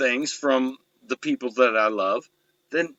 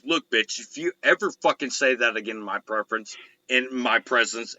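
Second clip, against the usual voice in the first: firm warning to the mother; retold angry threat; 4 semitones lower than usual. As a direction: snap the threat at her. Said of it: "I was like".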